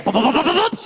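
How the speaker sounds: rapid-fire footstep noises; imitated footsteps. Boyfriend hearing her come back upstairs, imitated thumping. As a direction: mimic feet racing up the stairs. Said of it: "all of a sudden I hear".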